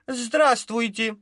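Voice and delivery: cheeky greeting. A narrator's reading. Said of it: "дерзко бросила".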